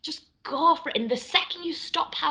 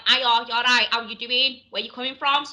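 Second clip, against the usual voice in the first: broad Manchester greeting; Manchester accent; 3 dB louder than usual. Shown as a demonstration. Showing a co-host how Manchester talks, Manchester accent. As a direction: put on a chatty Mancunian accent. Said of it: "Manchester's more like".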